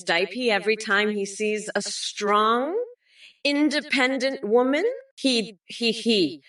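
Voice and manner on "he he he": short villain-style cackle, he he he; mocking cackle at a rival; cackling laugh. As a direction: cackle like a cartoon witch queen. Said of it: "I sound like Rita Repua when I laugh".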